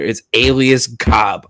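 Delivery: slow, plainly American reading of a foreign name; American accent. Shown as a demonstration. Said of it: "in my American accent here".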